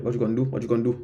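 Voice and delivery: American street English, repeated as practice; imitated American accent. Shown as a demonstration. Learner pauses the film and repeats the phrase, imitated American street accent. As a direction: drill the line in a light American street accent. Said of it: "je répétais les phrases avec le même accent".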